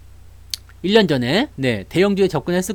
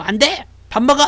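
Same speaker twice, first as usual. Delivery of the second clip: mock scolding; 7 semitones higher than usual. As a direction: bark it like a stingy friend. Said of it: "뭐". (장난스럽게 다그치는 말투)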